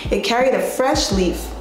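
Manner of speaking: steady, even Bible-story reading; Sunday school reading. Acted. Teacher reads Genesis to the class in a steady storytelling voice.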